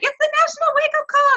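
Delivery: high, sing-song hyped announcement; excited cheer. Retold or imitated. Coach greeting the weekly call, cheerfully excited. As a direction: announce it like a game-show host. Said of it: "I get so excited".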